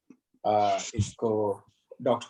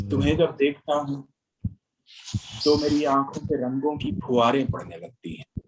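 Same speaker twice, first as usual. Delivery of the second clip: stately nazm recitation; 2 semitones higher than usual. Acted.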